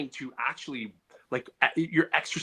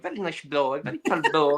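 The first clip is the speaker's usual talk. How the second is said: lightly imitated Portuguese accent. Shown as a demonstration. Imitating his Portuguese neighbors for friends, Portuguese accent. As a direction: slip into a mock Portuguese accent. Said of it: "you know, Portuguese people".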